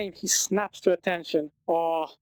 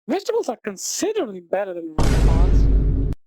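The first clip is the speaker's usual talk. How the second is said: angry shout; 7 dB louder than usual. Acted. Furious parent arguing with waiter.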